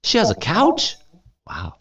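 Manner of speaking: high, teasing disbelief; mock surprise. Real, not acted. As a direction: gasp at the idea. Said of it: "teacher's joke about couch".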